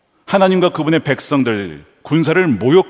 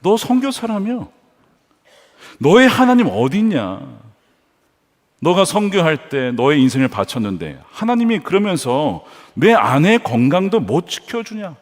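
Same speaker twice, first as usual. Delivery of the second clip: mocking taunt. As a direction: taunt a believer in mock challenge. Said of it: "골리앗이 조롱하는 거죠".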